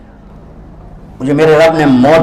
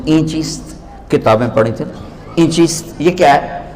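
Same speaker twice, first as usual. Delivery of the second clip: innocent asking; 5 dB quieter than usual. Retold or imitated. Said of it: "बड़े भोलपन में कहते हैं".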